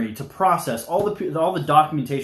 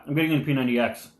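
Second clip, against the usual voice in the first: talking while chewing; words round a bite of food; mouth full; 2 semitones lower, much faster than usual. Real, not acted. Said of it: "Mom's telling me to chew before".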